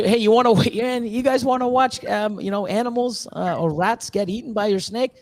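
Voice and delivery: high, laughing mock pitch to viewers; a laughing, high-pitched parody; mocking invitation. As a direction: send up a creepy invite, high and giggly. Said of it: "they can do".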